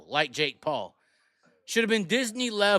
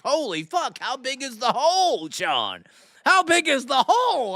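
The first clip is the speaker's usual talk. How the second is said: mock amazement; 2 semitones higher than usual. Acted amazed reaction to noise.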